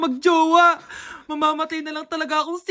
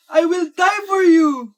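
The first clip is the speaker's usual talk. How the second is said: melodramatic cry; slower than usual. Acted. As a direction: ham up the heartbreak. Dramatic diary line. (madramang sigaw ng pag-ibig)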